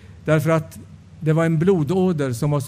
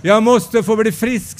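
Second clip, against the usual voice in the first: crying out; 3 semitones higher than usual. Retold or imitated. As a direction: call out to Jesus, pleading and building. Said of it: "skrek jag".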